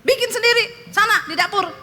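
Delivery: high-pitched angry order; retold anger. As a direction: re-enact snapping at a husband. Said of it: "Marah saya".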